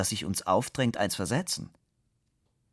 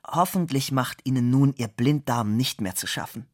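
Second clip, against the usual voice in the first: congratulatory tone; 4 semitones higher, 4 dB louder than usual. Acted. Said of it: "im Gratulationston".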